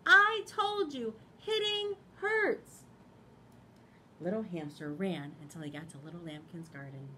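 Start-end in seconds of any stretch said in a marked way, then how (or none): 0.0-2.8 high, loud and slow telling-off; loud high Piggy. Acted. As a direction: call it out after him, hurt. Piggy continues calling after.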